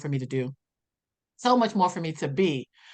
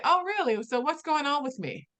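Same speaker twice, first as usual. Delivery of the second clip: much higher, mock-doubtful "Oh, really?"; sceptical challenge; 7 semitones higher than usual. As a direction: dare her to explain, a bit sceptical. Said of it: "I just looked at her and said".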